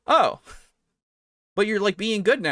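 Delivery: high, eager coaxing; eager pleading. Acted. Townsfolk pressing the villain, high eager coaxing. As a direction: press him like a hopeful fan.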